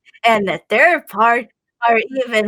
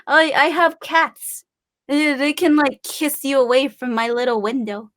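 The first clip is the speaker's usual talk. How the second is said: ordinary talk, nothing marked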